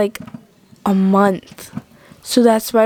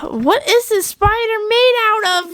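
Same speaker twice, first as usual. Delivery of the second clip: scared; 9 semitones higher than usual. Acted. Spray not working.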